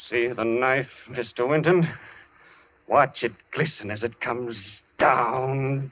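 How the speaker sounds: slow, gloating and menacing. Acted. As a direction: savour the threat, drawing each word out. Doctor raises knife over victim.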